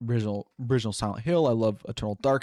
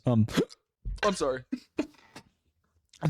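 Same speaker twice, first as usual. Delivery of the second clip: hiccups; 2 semitones higher, much slower than usual. Real, not acted. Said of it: "Sorry, I have hiccups".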